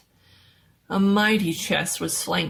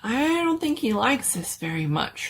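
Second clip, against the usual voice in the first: gasped; 5 semitones higher than usual. Acted. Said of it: "Rodney gasped".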